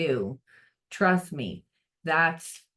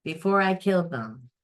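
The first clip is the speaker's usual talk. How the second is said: louder, higher call to the universe; 4 semitones higher, 3 dB louder than usual. Retold or imitated. Frustrated person calls on the universe, loud. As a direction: yell up at the universe, fed up.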